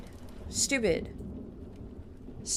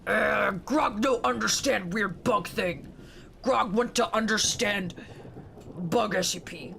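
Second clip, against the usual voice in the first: lightly done slow dumb caveman; slow, simple caveman grunt-talk, barely put on; caveman Grog; slower than usual. Caveman Grog talks about himself.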